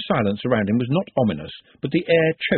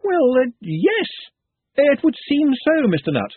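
slow, higher, halting yes; slow reluctant agreement; 13 semitones higher, 3 dB louder, slower than usual. A narrator's reading. Ponder gives in to Nutt with a slow, halting yes. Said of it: "saw Trev nodding frantically".

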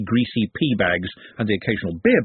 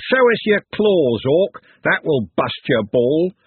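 high, loud, slow jeering taunts; bully goading the Orc goalkeeper; taunting thug; 5 semitones higher, 4 dB louder, slower than usual. Acted. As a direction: sneer at the goalkeeper to rattle him.

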